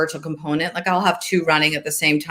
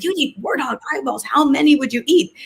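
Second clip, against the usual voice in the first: playful disbelief; 9 semitones higher than usual. Retold or imitated. Mother teasing her son.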